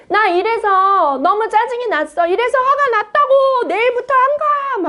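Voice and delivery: put-on high, whiny child complaining; a little child whining about daycare; upset child. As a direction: play the sulky kid, pitch way up.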